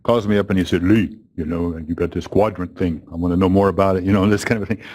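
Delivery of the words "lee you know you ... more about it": lightly attempted French accent, lower; a rough go at a French accent; deep French accent. French caller introducing himself by phone, light mock French accent. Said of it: "of a deep French accent".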